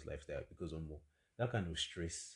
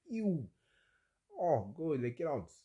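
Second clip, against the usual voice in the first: disgusted; 9 semitones higher, 5 dB louder, slower than usual. Pretend. Disgusted at the old man.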